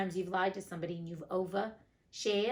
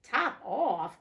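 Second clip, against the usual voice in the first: "Top off?" cried louder and higher with a questioning rise; the mouse can't believe the name, cry "Top off?" out; surprised cry; 4 semitones higher, 6 dB louder than usual. Acted. The mouse crying out in disbelief at the cat's answer, loud surprised question. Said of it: "cried the mouse".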